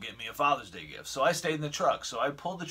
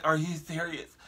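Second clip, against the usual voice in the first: mildly exasperated imitation; 3 semitones higher than usual. Lady imitated confronting the driver who bumped her, mildly exasperated. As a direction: quote her disbelief with a touch of drama. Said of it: "she was exasperated".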